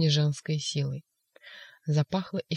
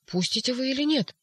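much higher threatening cry; terrible shout; 7 semitones higher than usual. Acted. Ivan at the door, a terrible shout. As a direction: frighten the orderlies. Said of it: "страшным голосом крикнул поэт".

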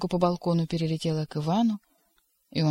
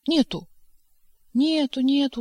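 soothing nurse; 8 semitones higher, 3 dB louder than usual. A narrator's reading. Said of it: "успокаивала добросердечная Прасковья Фёдоровна".

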